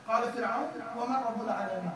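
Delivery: chanted verse in Arabic; تلاوة القرآن; Quran recitation. Acted. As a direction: recite it like scripture.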